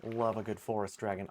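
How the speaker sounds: put-on a second try at the Australian accent, still faint; weak Australian accent again. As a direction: repeat it in a feeble Australian accent. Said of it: "I can't do an Australian accent to save my life".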